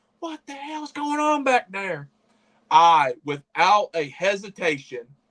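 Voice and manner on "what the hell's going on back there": mock high, pitched-up yell. Recounting how his dad turned around after he tripped and cried, retelling a yell. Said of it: "My dad yells".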